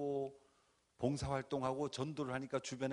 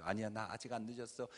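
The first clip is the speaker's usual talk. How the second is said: softer, muttered to himself; quiet self-talk; 3 semitones lower, 5 dB quieter than usual. Retold or imitated. Preacher reassuring himself, softly. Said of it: "제가 저를 합리화하기 시작하죠".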